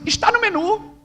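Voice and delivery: high-pitched, pointed waiter's reply; retold retort in a high voice; mock-friendly waiter. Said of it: "Bem querido, assim".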